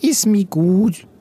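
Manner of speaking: high, slow little creature voice; agreeing chameleon. A narrator's reading. Chameleon Silly giving in to the condition, high slow agreement. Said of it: "stimmte Silly zu".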